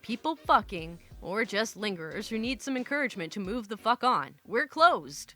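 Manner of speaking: measured storyteller read of a first-person tale; story narration. A narrator's reading. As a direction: narrate it with deliberate, even phrasing. Reads a posted story aloud.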